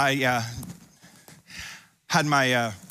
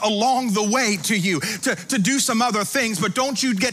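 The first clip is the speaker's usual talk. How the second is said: driving, slightly raised sermon delivery; impassioned preaching; 4 semitones higher than usual. Real, not acted. Preacher telling the discouraged God is still coming, fervent and insistent. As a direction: urge the congregation on with fervour.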